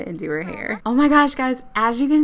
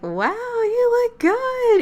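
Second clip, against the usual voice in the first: high, slow, drawn-out awe; hammed-up admiring croon; mock smitten boy; 13 semitones higher, 3 dB louder, much slower than usual. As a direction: gush as an impressed date. Voices smitten boy seeing date.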